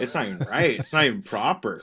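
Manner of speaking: ordinary delivery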